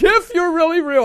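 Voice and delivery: high, loud bawled plea; retold bawling plea. Preacher reliving his desperate prayer at work, bawling plea. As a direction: act out crying out to God. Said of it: "I'm bawling".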